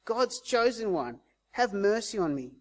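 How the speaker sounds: insistent appeal, each phrase pressing harder; calling out. Retold or imitated. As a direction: imitate the beggar begging to be noticed. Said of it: "He's calling out".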